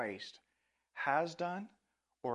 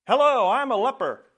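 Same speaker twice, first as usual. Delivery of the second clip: much higher and louder, a put-on cry; leper's voice; 11 semitones higher, 15 dB louder than usual. A narrator's reading. Leper calls out to Jesus from behind a building, high loud voice. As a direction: call out like a desperate outcast leper. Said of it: "a man responded".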